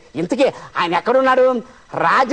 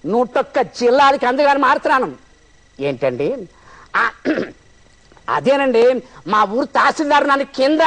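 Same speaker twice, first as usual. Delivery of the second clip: comic character on a bad phone line; Nutan Prasad. Mimic does Nutan Prasad as a villager confused on the phone. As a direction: play a fussy villager shouting into a phone. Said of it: "Nutan Prasad గారిని ఎవరు ఏ mimicry artist చేయలేరు".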